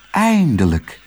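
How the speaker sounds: high, relieved exclamation; blissful, long-awaited relief; overjoyed sigh. A narrator's reading. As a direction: let it out with happy relief. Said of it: "zuchtte Otje dolgelukkig".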